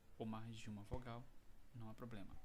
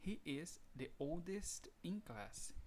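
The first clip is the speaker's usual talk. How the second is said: slow model sentence; 5 semitones higher, slower than usual. Shown as a demonstration. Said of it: "Um exemplo aqui".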